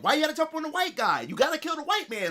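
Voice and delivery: high-pitched mock protest; playful trash talk. Joey having fun among black friends, high mock protest. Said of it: "Joey's sitting there having fun".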